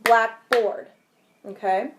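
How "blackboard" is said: blackboard split into black and board; clapped out syllables. Shown as a demonstration. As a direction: beat out black and board separately. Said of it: "we might clap it out like this".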